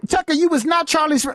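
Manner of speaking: high-pitched parroting; hammed-up imitation of a complaint; mocking mimicry. Mimics the clip just played.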